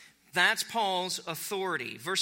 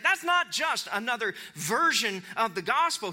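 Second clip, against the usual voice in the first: higher-pitched, insistent objection; fired up; 5 semitones higher, 4 dB louder than usual. Acted. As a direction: correct them urgently as Paul. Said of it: "he is fired up".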